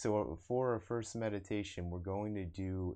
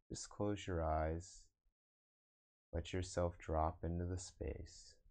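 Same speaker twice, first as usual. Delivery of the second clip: guided meditation. Acted. Meditation teacher guiding online viewers to observe the breath, guided meditation. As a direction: lead them into breath awareness, unhurried.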